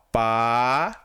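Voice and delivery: "Pa-i-zeis" split into drawn-out syllables with pauses. Shown as a demonstration. Teacher showing pupils how the word is separated, syllable by syllable. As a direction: say "Pa-i-zeis" slowly, one syllable at a time. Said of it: "Se separa assim".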